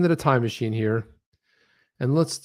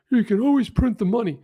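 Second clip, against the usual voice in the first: higher, incredulous echo of the line; a raised, stunned mock repeat; mock disbelief; 9 semitones higher than usual. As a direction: repeat it as if you can't believe he said it. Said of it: "He's like".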